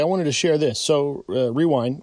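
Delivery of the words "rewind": vocal tape rewind noise. Shown as a demonstration. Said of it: "That was my rewind noise".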